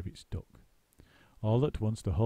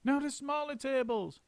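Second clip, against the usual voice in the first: mild shout. A narrator's reading. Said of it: "shouted Mugglewump".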